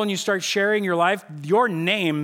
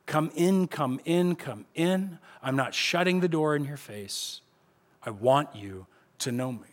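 gentle invitation; 2 semitones lower than usual. Acted. God gently invites rebels in.

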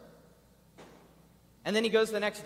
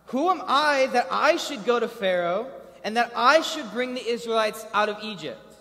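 pleading Moses; 7 semitones higher, 10 dB louder than usual. Acted. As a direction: cry out in disbelief. Voicing Moses' plea.

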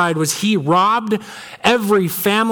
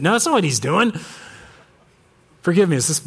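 ordinary delivery

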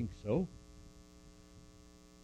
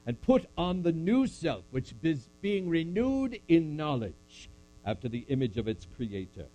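measured solemn Bible reading; scripture reading. Acted. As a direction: read it like a sermon text. Reads scripture aloud to congregation.

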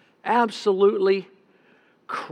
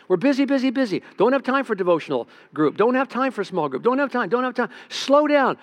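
high, loud, rushed mock frenzy; frantic busyness; 7 semitones higher, 3 dB louder than usual. Preacher mocking the congregation's busyness, frantic. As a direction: rattle it off like someone with no time.

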